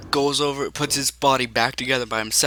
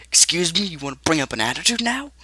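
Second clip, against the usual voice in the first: affronted challenge; 5 semitones higher, faster than usual. Acted. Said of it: "looking at you like".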